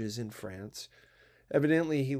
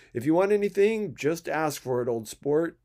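eager, louder, pressing friendly offer; urging; 2 semitones higher, 6 dB louder than usual. Acted. Gatsby urges the narrator before excusing himself, pressing. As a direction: press him warmly to take anything. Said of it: "he urged me".

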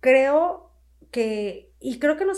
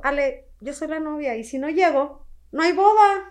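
firm bride; 4 semitones higher, 4 dB louder than usual. Retold or imitated. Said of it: "Me dijo".

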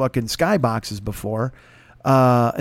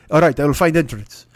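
1 mock Russian accent; 5 dB louder than usual. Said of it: "I don't do accents".

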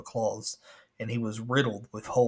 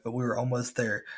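ordinary talk

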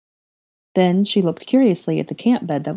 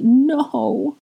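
higher, louder sobbed cry; wife hearing of the dead, higher, louder sob; sobbing no; 9 semitones higher, 3 dB louder than usual. A narrator's reading. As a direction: break into a sobbing protest. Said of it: "Hermione sobbed".

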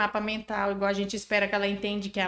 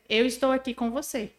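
gentle, softer reassurance. Shown as a demonstration. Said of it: "demonstra empatia".

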